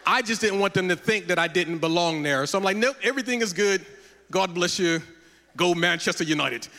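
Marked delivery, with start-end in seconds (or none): 2.8-6.7 lightly put-on London accent. Lost tourist brushing off a helper, mock London accent. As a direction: fake a touch of London accent to blend in. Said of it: "talking with a London accent".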